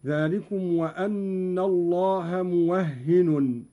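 موهن as muwahhinun, doubled h; Qalun reading. Shown as a demonstration. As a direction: say موهن with fatha on waw, double ha, final tanween. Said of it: "بفتح الواو وتشديد الهاء وتنوين النون".

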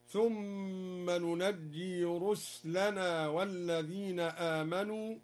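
"ننجي" said nunajjee with doubled j; slow recitation, "ننجي" as nu-naj-jee; fatha and doubled jim. Shown as a demonstration. Teacher showing al-Duri's reading, "ننجي" with doubled jim, nunajjee. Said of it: "وتشديد الجيم هكذا".

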